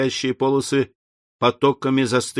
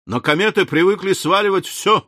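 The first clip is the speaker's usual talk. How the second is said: higher-pitched, lively objection; exclaiming; 8 semitones higher, 3 dB louder than usual. A narrator's reading. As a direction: exclaim it as a spirited protest. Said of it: "воскликнул Барбикен".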